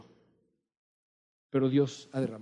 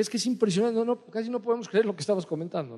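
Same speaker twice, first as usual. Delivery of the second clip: admiring sister; 7 semitones higher, faster than usual. Retold or imitated. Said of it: "decía".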